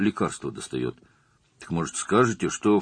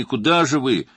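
reproachful; 7 semitones higher, 7 dB louder than usual. A narrator's reading. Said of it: "укоризненно произнёс Стас".

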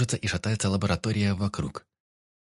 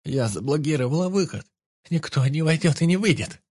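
defiant woman; 7 semitones higher, 4 dB louder than usual. A narrator's reading. Doctor defies her captor.

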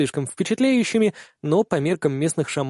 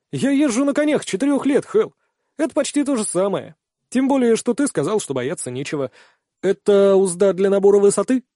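put-on high, lively young man's voice; bright eager youth, keen to fly; eager young rider; 5 semitones higher than usual. Kihara's lines, voiced by narrator.

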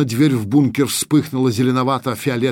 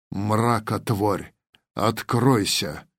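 slow, weighty incantation; thunderous voice; much slower than usual. Acted. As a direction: command the portal open, slowly. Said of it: "прозвучал громовой голос волхва".

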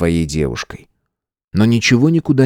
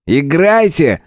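barked order; 7 semitones higher, slower than usual. A narrator's reading. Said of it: "гаркнул Дмитрий".

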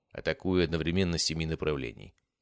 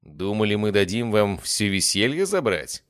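smirking; 4 semitones higher, 5 dB louder than usual. Acted. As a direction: tease them with a grin. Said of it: "усмехнулась Зара".

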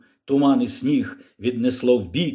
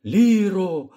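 shout; 4 semitones higher than usual. Acted. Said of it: "крикнув він".

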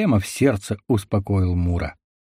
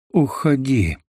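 hoarse croak; 3 semitones higher, slower than usual. A narrator's reading. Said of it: "теряя сознание, прохрипел он".

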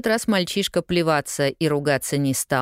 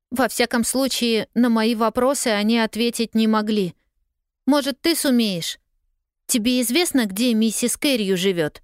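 lightly voiced girl; 7 semitones higher than usual. A narrator's reading. Pollyanna's voice.

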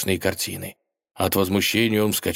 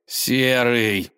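groan; 4 semitones higher than usual. Acted. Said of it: "застонал Иван".

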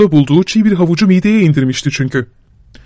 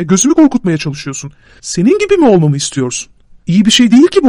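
a lightly raised, reproachful Georgian vagabond; Şakro's scolding; 4 semitones higher than usual. Acted. Şakro berating his travel companion in the rain, lightly raised and reproachful. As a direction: scold him like a spoiled young nobleman.

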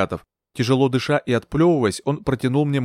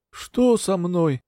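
slow, drawn-out feeble question; weak voice; 6 semitones higher, much slower than usual. A narrator's reading. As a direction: ask groggily as you come to. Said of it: "спросил Горбунов слабым голосом".

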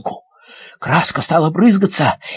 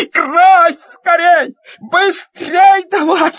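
urgent shout; 10 semitones higher, 4 dB louder, much slower than usual. Acted. Boy urging while pumping paint.

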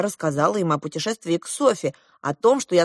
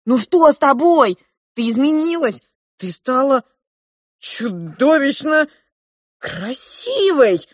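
high exclamation, stretched out at the end; astonished cry; 5 semitones higher, 3 dB louder, slower than usual. A narrator's reading. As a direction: marvel aloud at how she has changed. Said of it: "закричали одновременно Клоп и младший принц". (изумлённый возглас, высоко и врастяжку)

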